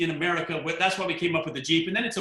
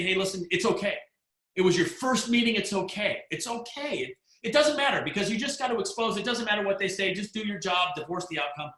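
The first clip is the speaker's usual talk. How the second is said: reassuring; 3 semitones higher than usual. Retold or imitated. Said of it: "I was probably just wanting to say".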